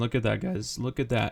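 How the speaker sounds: voice cracking and breaking. Watching a trade keep running into profit, voice cracking. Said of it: "Excuse my voice crack".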